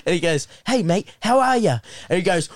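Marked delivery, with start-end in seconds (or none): 0.7-1.8 higher-pitched innocent hello, acted out; chummy greeting. New kid greeting the teacher on a dare, chummy. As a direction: imitate a new kid's friendly hello.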